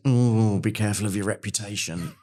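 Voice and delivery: mock-wary word of caution; retold warning with a long ooh. Retells a CEO's cautionary reaction.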